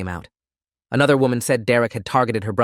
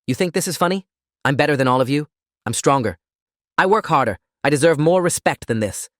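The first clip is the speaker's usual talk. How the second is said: raging; 4 semitones higher than usual. Acted. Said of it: "face twisted with rage".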